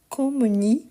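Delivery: "Communiquions" broken up, with the i before -ons clearly sounded. Shown as a demonstration. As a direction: say "Communiquions" in parts, ending on a distinct "ki-ons". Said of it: "on prononce bien le i".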